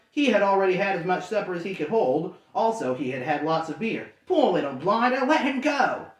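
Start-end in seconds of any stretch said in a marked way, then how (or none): 4.3-6.1 pitying troll. Acted. Drunk troll pities Bilbo.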